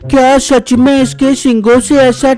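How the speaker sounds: surprised. Acted. Bittu hears oil is precious.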